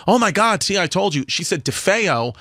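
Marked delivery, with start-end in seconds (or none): 0.1-1.2 imitating a vindicated friend; excited. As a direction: crow it triumphantly. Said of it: "she was like".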